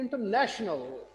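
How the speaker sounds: इंटरनेशनल slowly, stress on ने; इंटरनेशनल as in-ter-NA-tional. Shown as a demonstration. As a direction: lean on the ने in इंटरनेशनल. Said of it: "pronounce करता हूँ, उसमें आपने बताना stress".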